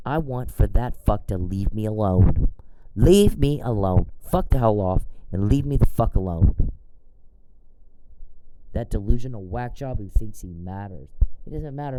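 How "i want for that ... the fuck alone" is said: forceful, slowed "Leave me alone"; retold angry retort. Ranting at the stalker, angry and firm. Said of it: "And I'm like".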